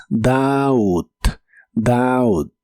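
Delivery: "doubt" slowly, like "daut"; O as A, silent B. Shown as a demonstration. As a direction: sound out "doubt" with an A and no B. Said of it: "la B no se pronuncia". ("doubt" lento, como "daut", sin B)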